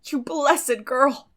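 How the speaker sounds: put-on slow, moved older woman giving in; tender yielding. A narrator's reading. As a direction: draw it out, touched. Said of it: "said Marilla, yielding".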